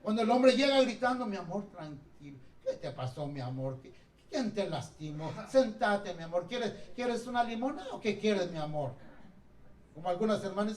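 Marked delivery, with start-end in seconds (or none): 1.3-8.9 soft, lower, sweet coaxing; tender wife. Acted. A wife soothing her husband who came home yelling, soft and tender. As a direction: coo over him like a hurt child.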